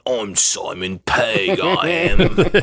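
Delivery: lightly done low slow voice; low character voice. Retold or imitated. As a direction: drop into a slow low growl. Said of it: "He's got a low voice".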